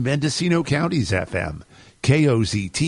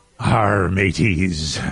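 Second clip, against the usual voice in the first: put-on pirate voice, much lower pitched; 6 semitones lower than usual. Radio host opening his show on Talk Like a Pirate Day, pirate voice. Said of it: "It is Talk Like a Pirate Day, which is why I started with that outburst".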